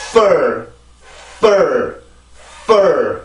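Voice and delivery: "fur" with a long rush of air on f before the stressed vowel; air-driven f. Shown as a demonstration. Teacher showing how air launches the stress, air-driven f. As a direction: push breath through the f, then land on "fur". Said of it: "그 소리가 많이 나오고 나서 내가 강세로 올라가 주는".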